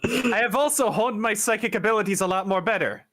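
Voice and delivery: lightly put-on Irish accent for a diary entry. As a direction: dictate a mental diary with a touch of Irish. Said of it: "pick up the Irish accent".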